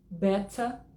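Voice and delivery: better with a crisp t and no final r; British better. Shown as a demonstration. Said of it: "Quatro opções pra você escolher". (better britânico, T bem marcado e final "bétâ" sem R)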